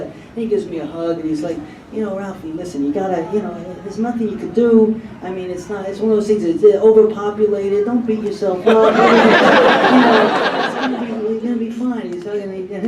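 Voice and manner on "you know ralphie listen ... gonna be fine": consoling Joe. Retold or imitated. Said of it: "he was so sympathetic".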